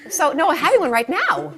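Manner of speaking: high-pitched mid-contraction interruption; urgent caller. Acted. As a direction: play a caller caught by a contraction. Acts caller hit by contraction.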